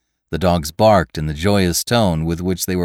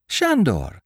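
crying out; 9 semitones higher than usual. A narrator's reading. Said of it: "cried the girl".

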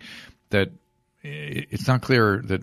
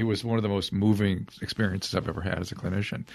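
holding back tears; 6 dB quieter than usual. Real, not acted. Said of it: "I'm gonna cry".

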